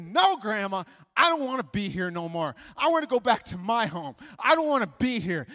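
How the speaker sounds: loud, insistent refusal; defiant child. Retold or imitated. Child refusing to go with Grandma, defiant.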